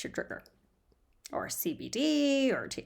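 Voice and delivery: conspiratorial whispered aside; playful whispered suggestion. Real, not acted. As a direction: lean in and whisper it.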